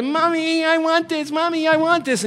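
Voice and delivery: mock pleading little-kid voice; demanding child. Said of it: "the voice we hear".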